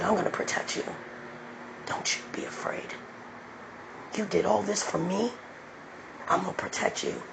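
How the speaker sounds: soft, unvoiced reassurance from God; tender whisper. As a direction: whisper a promise of protection. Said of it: "He said".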